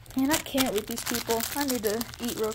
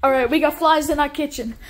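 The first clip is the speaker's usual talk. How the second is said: loud call; 2 semitones higher, 7 dB louder than usual. Acted. Waiter calling out announcement.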